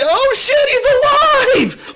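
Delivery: high, thrilled cry of surprise; excited disbelief. Retold or imitated. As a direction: gasp it out like the hero just survived. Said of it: "I was screaming".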